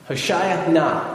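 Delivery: "Hoshaya na" spaced out slowly, NA set apart; Hebrew pronunciation. Shown as a demonstration. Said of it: "It sounded more like".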